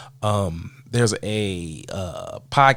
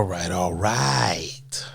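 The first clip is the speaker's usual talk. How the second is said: whispered aside; 3 semitones lower, much slower than usual. Real, not acted. Trailing repeat to himself.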